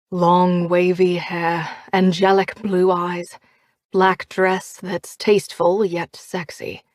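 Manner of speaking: slow, dazed, lovestruck description; lightly voiced smitten man; dreamy Oliver. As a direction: savour each detail dreamily.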